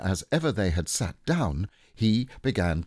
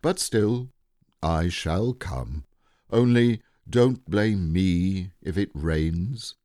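slow, ponderous grumble from a gloomy donkey; lightly voiced doleful donkey, drawn out; glum Eeyore; 3 dB louder, slower than usual. Eeyore's reply before narration resumes.

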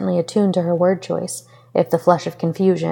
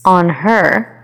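challenging question; 6 dB louder than usual. Acted. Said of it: "Aizawa questioned challengingly".

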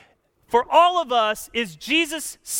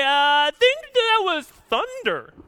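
dim-witted bystander; 6 semitones higher than usual. Acted. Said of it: "there's some morons in the crowd".

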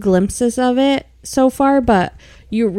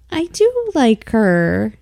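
drawn-out protest; much slower than usual. Retold or imitated. Retold protest about liking the cat.

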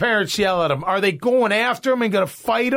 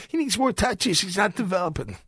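mocking a pushy parent; 5 dB quieter than usual. Host mimics a youth-sports parent to the coach, mild mocking voice. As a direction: parrot the parent's demand in a mild mock voice. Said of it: "You telling the coach".

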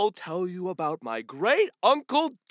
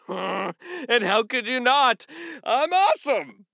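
boastful cheer; 8 semitones higher than usual. Acted. Donkey bragging to the children, high and proud. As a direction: crow about how awesome you are.

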